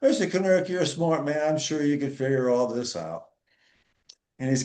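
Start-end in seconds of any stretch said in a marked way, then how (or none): 0.0-3.3 sweet receptionist. Retold or imitated. Young lady on the phone, sweetly brushing off Dan's complaint. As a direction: flatter him with a sugary phone voice. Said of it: "And she goes".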